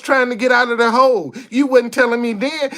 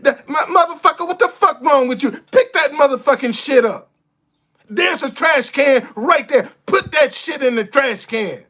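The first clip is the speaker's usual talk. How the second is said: mock cuss out; 3 semitones higher than usual. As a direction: tell the litterer off hard. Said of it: "This is what you need".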